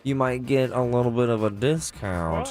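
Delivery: talking through clenched teeth; words squeezed through the teeth; through gritted teeth. Pretend. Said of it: "I have to talk through my teeth".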